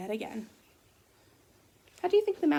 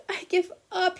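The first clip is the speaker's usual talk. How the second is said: higher, mock blubber; 7 semitones higher than usual. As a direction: whimper it like a beaten bear. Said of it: "he blubbered".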